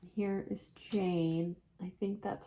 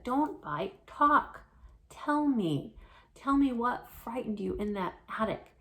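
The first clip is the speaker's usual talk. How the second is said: higher, louder urgent demand; urgent pleading; 4 semitones higher, 5 dB louder than usual. Acted. Alexander urging a frightened Jane, higher and louder. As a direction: press her hard to talk.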